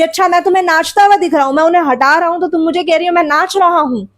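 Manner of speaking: rapid, indignant protest, lightly acted; mild retold anger. Father protesting to mother that he is not dancing, mild anger. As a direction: rush through it as if mildly affronted. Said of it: "पिताजी को और भी ज्यादा गुस्सा आया".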